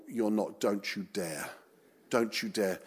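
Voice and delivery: a muttered don't-you-dare to yourself; mock horrified murmur; hushed inner plea. Silent horror at friend evangelising.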